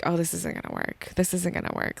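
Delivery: softly voiced anxious thought; nagging inner doubt. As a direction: mildly imitate a doubting inner voice, kept quiet. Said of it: "nagging fear and thought of".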